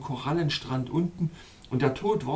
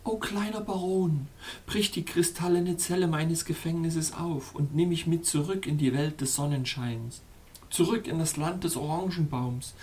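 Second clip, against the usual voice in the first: imagined whisper; 3 semitones higher than usual. Retold or imitated. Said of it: "dass ich ihn flüstern höre".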